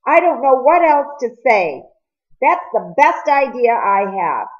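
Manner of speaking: pleading, close to breaking; a strained, breaking plea. A narrator's reading. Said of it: "His voice broke".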